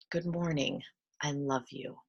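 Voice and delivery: soft, gentle morning affirmation; tender self-greeting. Shown as a demonstration. Teacher modelling a waking self-greeting, tender and soft. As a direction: say it softly, as if to yourself.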